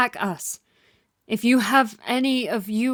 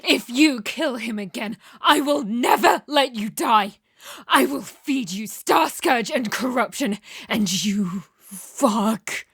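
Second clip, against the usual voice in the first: angry; slower than usual. Acted. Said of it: "I just got too angry".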